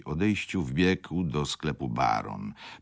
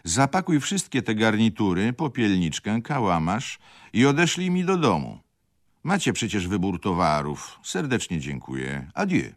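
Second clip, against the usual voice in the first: loud call; 7 semitones higher, 7 dB louder than usual. Acted. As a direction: raise the voice to drown out the wife. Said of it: "zawołał nie mniej głośno".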